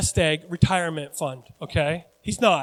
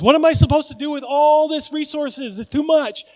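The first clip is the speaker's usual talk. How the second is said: high, loud mock bewilderment; overwhelmed rich fool; 8 semitones higher, 6 dB louder than usual. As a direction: act out a rich man swamped by his own plenty. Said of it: "After he goes".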